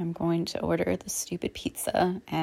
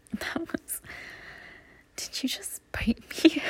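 playful surprise; 8 semitones higher than usual. Acted. Partner bites during hug.

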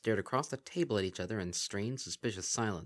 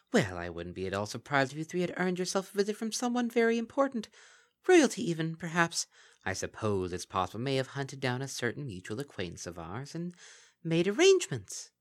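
mocking Kelpie; 6 semitones higher than usual. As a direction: purr false praise like a gleeful monster. Kelpie hinting slyly.

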